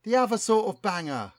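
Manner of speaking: lightly voiced London rapper, keen; a hint of a slangy London rapper; street rapper voice. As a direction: talk like a cocky MC pitching a hit. Plays rapper Chronic Cortex.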